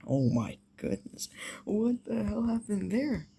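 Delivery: whispered disbelief; stunned whisper. Real, not acted. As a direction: breathe it out, stunned.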